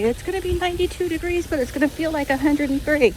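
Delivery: lightly imitating a TV weatherman; hint of a forecast read. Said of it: "you know how the weatherman will say".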